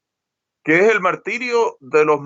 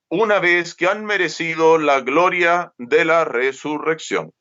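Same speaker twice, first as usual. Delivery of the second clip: scripture reading; 3 semitones higher than usual. Acted. Reads a Gospel verse aloud.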